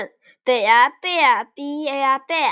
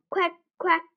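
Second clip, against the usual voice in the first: higher-pitched duck quacks; duck quacking; 4 semitones higher, 3 dB quieter than usual. Pretend. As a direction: imitate a duck with two quacks. Imitating a duck in animal quiz.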